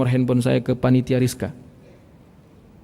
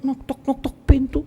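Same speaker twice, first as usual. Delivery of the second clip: high, slow, drawn-out question; wondering who knocks; 9 semitones higher, 4 dB quieter, slower than usual. Retold or imitated. Prophet asks who knocks at midday, wondering. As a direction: call out lightly, pitched high and stretched.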